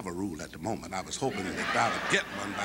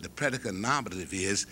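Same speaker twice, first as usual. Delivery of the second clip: Bed-Stuy vernacular; 2 semitones lower than usual. Retold or imitated. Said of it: "slipped into his Bed-Stuy vernacular".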